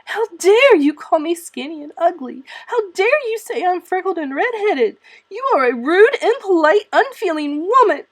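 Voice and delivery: acted girl raging at a rude neighbour; furious child. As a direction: hurl the insults at her. Anne rages at Rachel.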